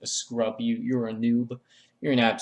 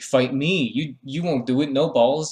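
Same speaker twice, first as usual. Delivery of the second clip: a bit higher and louder, goading; mock taunt; 3 semitones higher, 3 dB louder than usual. Tingle goading the old man into a fight, mock taunt. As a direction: egg him on like a schoolyard dare.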